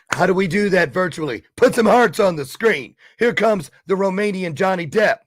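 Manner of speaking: rally the viewers like a show host; excited hype. Real, not acted. Host hyping viewers for the guest's entrance, excited.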